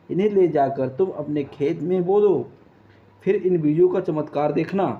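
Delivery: put-on an old grandfather comforting a child; kind old man. Old man gives magic seeds. (रोती चिड़िया से पूछते दयालु बूढ़े बाबा)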